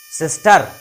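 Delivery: सिस्टर with a loud rolled final r; wrong rolled r. Shown as a demonstration. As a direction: stress the r at the end of सिस्टर wrongly. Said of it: "अजीब सा लगेगा".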